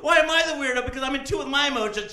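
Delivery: high, loud, crooning confession; lovesick gator. Pretend. Alligator tells partner he loves her, high and loud.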